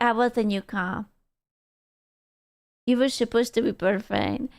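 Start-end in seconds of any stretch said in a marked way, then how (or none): 2.9-4.5 quiet sad lament. Acted. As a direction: murmur it like quiet heartbreak. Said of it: "If you were supposed to be perfect".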